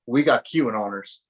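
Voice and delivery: lightly put-on Southern accent. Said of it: "I really liked your Southern accent there you just, uh, put on".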